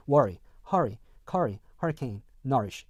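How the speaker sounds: worry, hurry, curry with a simple "uh/er" first vowel; American list, first syllable of "hurry" said as 어. Shown as a demonstration. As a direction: say "worry" and "nourish" American-style, one word at a time. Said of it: "팔 번 다시 한번 발음해보면서".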